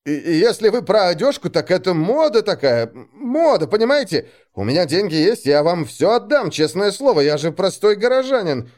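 high, nervous pleading; scared simpleton explaining himself; frightened squeak. A narrator's reading. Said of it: "запищал я, испуганно вертя головой".

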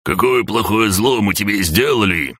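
high, wailing complaint; the orange mokosh wails at the hero. A narrator's reading. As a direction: howl out the grievance. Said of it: "завопил оранжевый".

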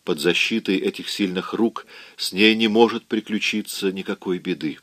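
plain reading voice

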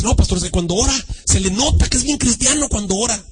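admiring church member. Acted. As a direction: imitate a fan vouching for a preacher.

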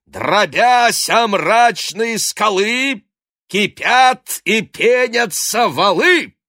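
high, slow, loud bellowed verse; at the top of his lungs. Acted. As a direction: declaim the lines down the cliff at full voice. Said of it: "крича во всё горло".

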